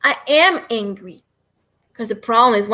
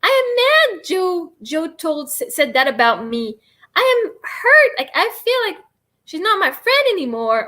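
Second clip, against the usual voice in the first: put-on child's voice; 5 semitones higher than usual. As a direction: voice a hurt kid, lightly. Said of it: "if you have kids at home".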